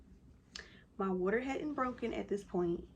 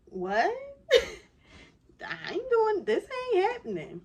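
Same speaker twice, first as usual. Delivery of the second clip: high, whiny mock panic; hammed-up refusal, voice leaping up; balking husband; 13 semitones higher, 6 dB louder than usual. Wife imitates husband with no midwife there, panicked refusal.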